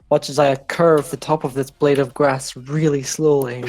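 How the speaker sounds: bad British accent. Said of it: "really bad British accent".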